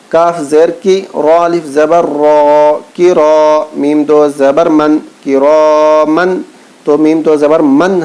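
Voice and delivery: slow, chanted spelling recitation; Quran primer recitation. Shown as a demonstration. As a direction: chant each syllable slowly like a Quran class.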